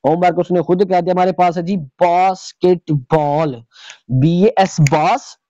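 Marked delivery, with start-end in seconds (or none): 1.8-3.6 बास्केटबॉल slowly split into its three syllables. Shown as a demonstration. Teacher showing students the syllables in homework, बास्केटबॉल said beat by beat. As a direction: say बास्केटबॉल in separate beats, बास-केट-बॉल. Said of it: "contain a single vowel sound".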